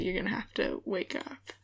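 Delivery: whispering. Real, not acted. Quiet late-night aside.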